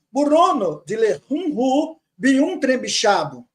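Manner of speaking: 1 slow reading aloud. Shown as a demonstration. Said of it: "ele fala assim".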